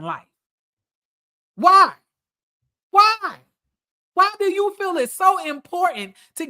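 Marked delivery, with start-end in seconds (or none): 1.5-6.5 loud, pleading exasperation; exasperated cry. Real, not acted. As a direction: cry it out high in frustration. Exasperated rant at the man discussed.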